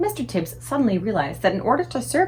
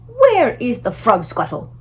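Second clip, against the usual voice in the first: slow, louder giant demand; giant voice asking; 3 semitones higher, 5 dB louder, slower than usual. A narrator's reading. The BFG asking the Queen for his drink, slow. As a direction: ask for it slow and earnest like the giant.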